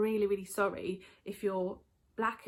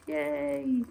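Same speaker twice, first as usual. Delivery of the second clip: little cheer; 6 semitones higher, 4 dB louder than usual. Real, not acted. Cheering while making hot chocolate.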